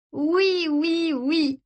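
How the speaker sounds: high, sing-song yeses; dreamy euphoria; giddy sister. Acted. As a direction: float through them happily. Sister leaning on brother.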